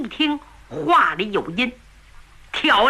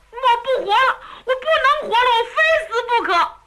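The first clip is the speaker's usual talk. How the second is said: mock shouting; 11 semitones higher, faster than usual. A narrator's reading. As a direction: yell it to scare her, not meant. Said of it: "何凤嘴里喊得挺厉害".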